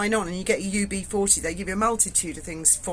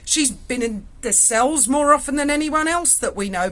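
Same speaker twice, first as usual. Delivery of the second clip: amused copper; 5 semitones higher, 4 dB louder than usual. Retold or imitated. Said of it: "He went".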